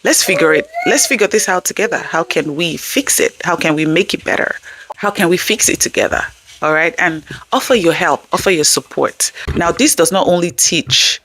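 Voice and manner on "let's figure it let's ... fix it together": supportive parent. Shown as a demonstration. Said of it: "let's try words like".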